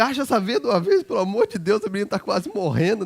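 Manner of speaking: loud, pleading urgency; frantic father urging the nurse to hurry; desperate plea. Retold or imitated.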